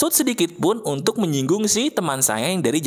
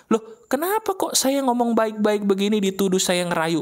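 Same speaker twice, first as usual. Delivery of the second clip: offended; 4 semitones higher than usual. Acted.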